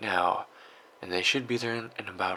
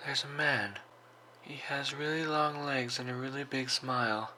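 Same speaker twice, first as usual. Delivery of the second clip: put-on high, small girl's voice; frightened child; 4 semitones higher, 3 dB quieter than usual. Hiding girl describes the intruder to the operator, frightened. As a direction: speak up high like a scared little girl.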